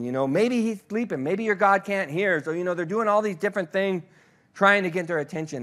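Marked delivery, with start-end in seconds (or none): 0.3-2.4 mocking taunt. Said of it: "Ezekiel kinds of mocks them".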